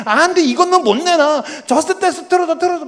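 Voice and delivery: dad imitating his stubborn youngest; whiny little girl. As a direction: refuse and whine like a six-year-old. Little daughter refusing, demanding.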